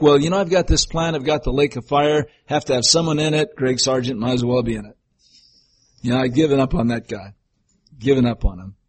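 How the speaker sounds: fast, offhand shrug of a voice; dismissive God. Pretend. Preacher voicing a God who has given up, offhand. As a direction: toss it off like a bored judge. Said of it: "He never has that attitude".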